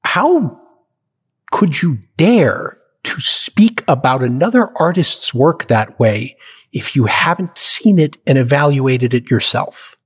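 slow, measured scolding from a mentor; a hint of an offended director, slow and deliberate; stern rebuke. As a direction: lay it down like a disappointed hero. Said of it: "He said, he said".

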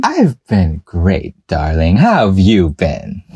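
slow, lightly grand lady voice; silly posh voice. Pretend. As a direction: play it like a lightly posh diva. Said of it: "I'm just being silly".

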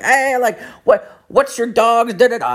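high mimicked kid calling out; pestering little kid. Little kid running after a man, high pestering voice. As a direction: imitate a child chasing with questions. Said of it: "The kid starts, like, running after me".

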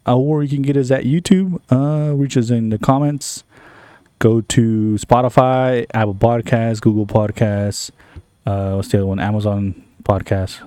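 slow, spelled-out promo read; podcast promo. Shown as a demonstration. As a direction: plug the show, spelling it out. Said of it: "It's a promo".

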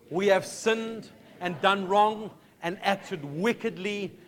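slow, solemn scripture reading aloud; solemn prayer read slowly, each phrase weighted. Acted. Congregation reads Daniel's prayer aloud.

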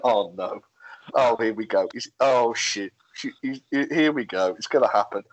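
low worried mutter; hint of group dread; dreading murmur.

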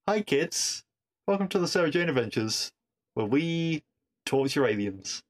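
mock presenter. Sarcastic mock children's presenter.

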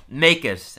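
half shouting. Real, not acted. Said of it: "I don't know who I'm shouting".

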